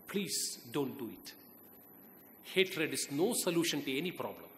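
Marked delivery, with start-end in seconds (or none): 0.1-1.3 slow, hushed pleading; soft plea. Real, not acted. Speaker to his young audience, urging them against hate speeches, in a slow, soft plea. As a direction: softly beg the students not to do it.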